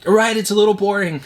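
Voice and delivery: lightly hammed boredom; mock deflated. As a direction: sell the unimpressed verdict playfully. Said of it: "you're like".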